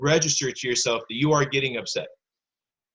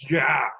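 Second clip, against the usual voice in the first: exasperated outburst; 2 semitones higher, 6 dB louder than usual. Acted. Teacher acts out upset feelings for pupils, exasperated outburst. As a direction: blurt out a wordless burst of pent-up annoyance. Acting out jealous anger to pupils.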